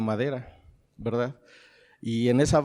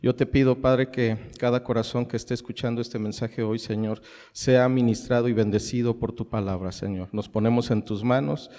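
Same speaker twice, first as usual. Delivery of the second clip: prayer; 3 semitones lower than usual. Acted. Pastor praying over his congregation before the sermon, humble and earnest.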